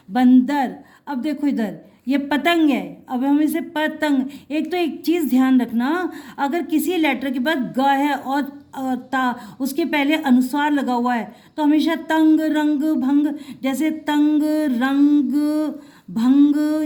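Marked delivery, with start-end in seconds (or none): 0.1-0.7 बंदर said louder, with a clear न before द; pronunciation demo. Shown as a demonstration. Teacher to child, modelling the word बंदर. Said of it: "समझे?". 11.9-16.8 तंग, रंग, भंग each ending on a firm ng; ng words demo. Shown as a demonstration. Teacher to child, drilling the ng ending. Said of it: "ये तो हमेशा ऐसे ही बोले जाएंगे".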